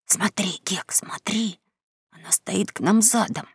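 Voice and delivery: soft urgent whisper. Acted. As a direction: whisper it, swallowing tears. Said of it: "проглотил слёзы и шепнул".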